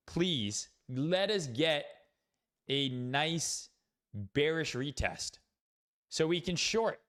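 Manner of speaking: slow, drawn-out playful plea; mock begging. Trader begs the market for a bearish retest, mock pleading. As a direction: spread the words out in a put-on beg. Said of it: "I'm sitting here begging".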